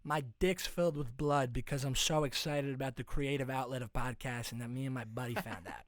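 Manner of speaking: lightly brash Boston bro; Massachusetts accent. Acted. Masshole host excited about his podcast, Boston accent. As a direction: explain yourself in Boston bro talk. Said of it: "I just mastered the guy's accent".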